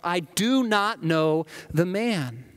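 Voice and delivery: a firm, vehement denial under oath; swearing denial. Acted. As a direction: swear it as if cursing yourself. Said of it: "to invoke a curse on himself and to swear".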